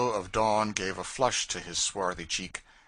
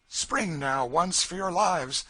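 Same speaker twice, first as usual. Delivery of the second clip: loud, high and slow, every word pushed; urgent shout; 10 semitones higher, 6 dB louder, slower than usual. A narrator's reading. Phineas driving the party over the gap, urgent shout. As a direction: shout them across for their lives. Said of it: "said he".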